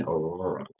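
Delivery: Aurora said with both r sounds as w, like Awowa; says w for r. Real, not acted. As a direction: Aurora with a w in place of each r. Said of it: "I can't say my R".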